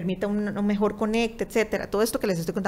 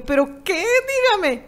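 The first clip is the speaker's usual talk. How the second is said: higher, louder, impatient re-enacted plea; urgent demand; 11 semitones higher, 6 dB louder than usual. Patient pressing the secretary for the other news, urgent demand. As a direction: press for the news, lightly acted.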